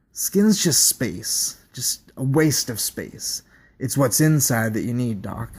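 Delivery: slow, drawn-out unsettling subject; eerie slow voice. Acted. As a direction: let it crawl out, unnerving.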